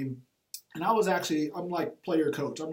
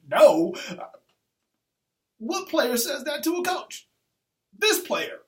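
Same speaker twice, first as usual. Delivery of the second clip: much higher and slower, stunned disbelief; incredulous retort; 10 semitones higher, 7 dB louder, slower than usual. Retold or imitated. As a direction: throw it back at him like you can't believe your ears. Coach stunned by a player's refusal.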